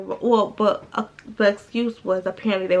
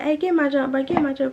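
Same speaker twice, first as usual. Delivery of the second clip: imitated higher-pitched urgent request; urgent appeal; 4 semitones higher, 3 dB louder than usual. Storyteller imitating him at his roommate's door, urgent. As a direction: call on a buddy for backup.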